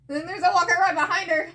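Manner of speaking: laughing. Real, not acted. Laughing reaction while reading comic.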